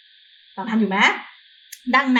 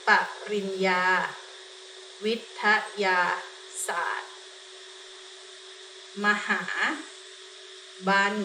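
syllable by syllable; 3 semitones lower, 7 dB quieter than usual. Shown as a demonstration. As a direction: break the word into syllables with pauses. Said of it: "ปริญญาวิทยาศาสตร์มหาบัณฑิตค่ะ".

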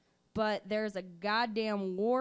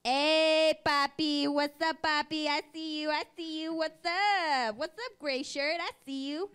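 loud leering catcall, higher; mock catcaller; 4 semitones higher, 3 dB louder than usual. Catcalling a man in a gray shirt, mock leering. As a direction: call out to the men, mildly hammed-up. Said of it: "here's the next one".

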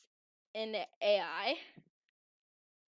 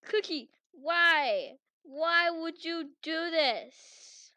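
slow anguished why; 4 semitones higher, 5 dB louder, much slower than usual. Acted. Betrayed by Cookie.

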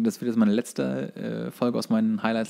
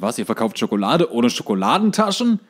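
louder, mock-outraged salesman voice; louder mock con-artist outrage; pushy con man; 3 semitones higher, 5 dB louder than usual. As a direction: play the fast-talking swindler scolding the boys. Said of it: "so einem Typen abzocken".

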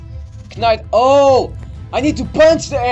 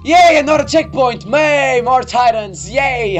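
high, loud cheerful squeal; excited; 6 semitones higher, 5 dB louder than usual. Real, not acted. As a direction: cheer like it's great news. Mock cheer at more titans.

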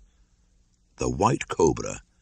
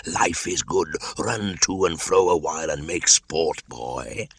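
gloating cobra. Acted. Cobra boasting to Kaa about the sport. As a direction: toy with the boy like a proud old warden.

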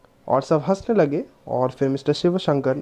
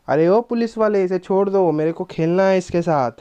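put-on angry child; 3 semitones higher than usual. Leela demands the policeman let Sida go, angry child. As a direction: insist like a cross little girl.

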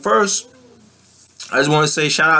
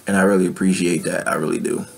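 emotional; 4 semitones lower, 3 dB quieter, faster than usual. Real, not acted. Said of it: "getting a little emotional".

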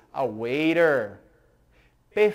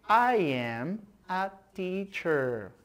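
model sentence; 5 dB quieter, slower than usual. Shown as a demonstration. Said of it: "Repitam comigo".

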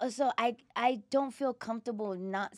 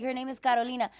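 put-on Spanish accent; faster than usual. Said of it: "without the Spanish accent".

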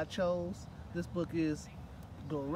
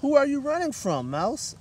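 high, louder little animal voice; curious chipmunk; 10 semitones higher, 13 dB louder than usual. Acted. Chipmunk asks the mouse what she flees, high and chirpy. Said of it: "asked Chipmunk".

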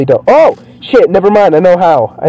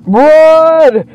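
high, urgent cry; panicked; 12 semitones higher than usual. Real, not acted. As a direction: call out as the train bears down. Fleeing the train in the game.

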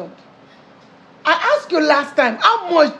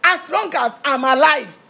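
raised-pitch, forceful decree; indignant; 4 semitones higher than usual. Acted. Mother forbids car for daughter's father, indignant. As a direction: lay down the law, indignant.

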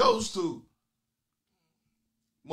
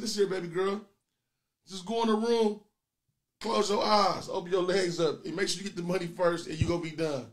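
a hint of a smooth pimp coaching his girl; lightly voiced pimp giving orders, rising on the commands; mock pimp voice. Old pimp to his working girl, lightly voiced and bossy. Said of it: "It's pimping".

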